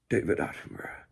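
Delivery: bassy documentary narrator, loud and low; David Attenborough. Acted. ASMR host refining his impression, bassy narrator voice. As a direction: drop into a deep narrator voice. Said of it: "A bit more bassy".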